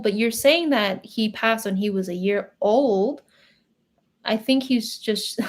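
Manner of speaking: ordinary talk, nothing marked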